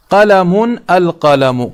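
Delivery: teacher slowly contrasting two forms; slow model reading. Shown as a demonstration. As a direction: read قلم, القلم slowly to show the contrast. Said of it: "دوسری مثال آپ دیکھ لیجئے".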